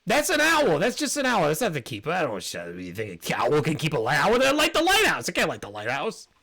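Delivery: high, eager squeaky bat insisting on friendship; squeaky fawning bat. Acted. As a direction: pitch way up and gush loyalty. GM voices bat answering.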